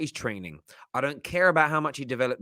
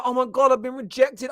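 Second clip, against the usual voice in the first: mock dismay; 9 semitones higher than usual. Mock lament while celebrating.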